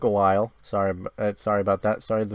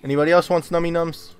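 higher, coaxing pet-feeding voice; mock baby talk; 4 semitones higher, 3 dB louder than usual. Gamer taunts zombies as if offering treats, light mock baby talk. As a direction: tease the zombies like feeding puppies.

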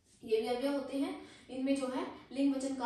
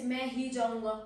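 मैं punched, louder; stress on मैं; 4 dB louder than usual. Shown as a demonstration. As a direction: hit the word मैं hard. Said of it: "इस बात पर जोर देने के लिए". (मैं पर ज़ोर)

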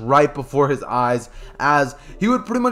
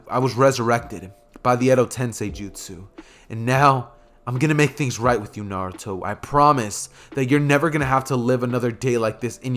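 tender father; 4 semitones lower than usual. Acted. Minato comforting his son.

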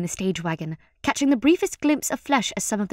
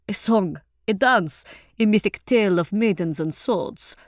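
rich-voiced courteous performer; hearty, formal character voice; genial troupe leader. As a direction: offer your services with showman's flourish.

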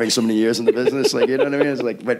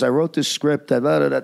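mock swagger; 5 semitones higher than usual. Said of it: "with his swagger and his crap".

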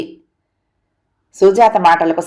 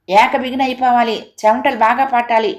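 mildly mimicked strict instructor, pitched higher; complaining imitation; 4 semitones higher than usual. Wife quoting the instructor to husband, mildly complaining. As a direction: lightly quote her orders as a grievance. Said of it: "ఫిర్యాదు చేస్తున్నట్టుగా చెప్పింది".

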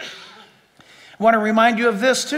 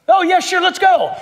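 mock eager sinner; 6 semitones higher than usual. Preacher voicing sinner agreeing eagerly.

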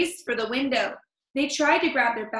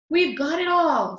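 excited; 6 semitones higher, 6 dB louder than usual. Acted. Burglars escaping with loot.

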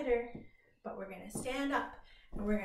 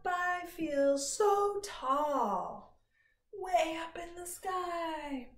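drawn-out tall voice; 4 semitones higher, slower than usual. Shown as a demonstration. Stretching tall rhyme.

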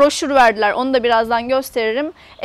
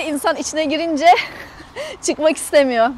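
laughing; 3 dB quieter than usual. Real, not acted. Laughs while praising the shop.

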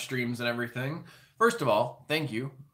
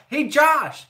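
higher, louder taunting call; teasing mock shout at the brother; mock yell back; 12 semitones higher, 9 dB louder than usual. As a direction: throw the yell back in his face. Mimics the yell back at Josh.

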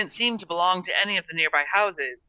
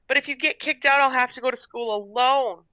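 put-on high, upset little-girl plea; tearful cry; 8 semitones higher than usual. A narrator's reading. Gertrude fears going to school alone, tearful cry. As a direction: plead as tears well up. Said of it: "Gertrude cried, her wide eyes filling with tears".

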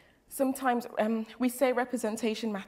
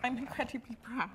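blubbering; 4 dB louder than usual. Real, not acted. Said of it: "I'm so sorry I'm crying".

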